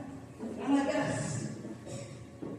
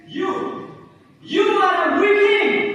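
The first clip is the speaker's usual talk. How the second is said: loud, higher taunting yell; 5 semitones higher, 8 dB louder, slower than usual. Acted. Boy jeering at Giovanni as a weakling, loud high yell. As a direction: sneer it loud at him.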